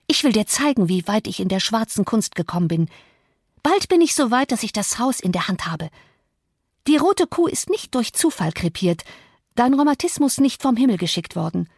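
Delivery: Misses Heathcliff. Acted. Young mistress shows the old servant her black arts, menacingly. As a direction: taunt him with pretended black magic.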